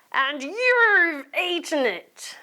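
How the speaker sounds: angry accusing. Acted. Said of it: "shouted Marvin".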